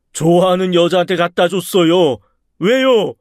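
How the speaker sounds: high, loud, indignant shout; acted yell from pent-up hurt; hurt outburst. A narrator's reading. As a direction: burst out, wronged and defiant. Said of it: "너무 서러워서 버럭 소리를 지르고 말았습니다".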